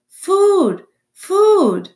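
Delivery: put-on tiny high-pitched baby bird cry; peeping gosling. A narrator's reading. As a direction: peep loudly like a hungry hatchling. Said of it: "peeped the gosling".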